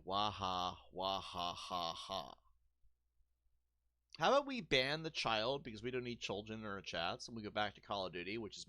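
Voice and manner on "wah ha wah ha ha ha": mock villain laugh. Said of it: "Let's read his next comment".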